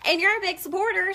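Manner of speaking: high, loud, teary laugh breaking into words; laughing through tears. Real, not acted. Thanking a big supporter on the live stream, laughing through tears. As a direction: laugh while fighting back tears. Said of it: "I'm gonna cry".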